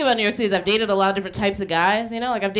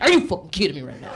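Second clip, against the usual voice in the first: mock disbelief; 6 semitones lower, faster than usual. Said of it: "he was just like".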